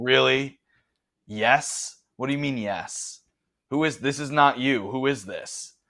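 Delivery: incredulous, disbelieving voice. Voicing a character who stares and questions the player: incredulous guard voice. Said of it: "He just looks at you and he's like".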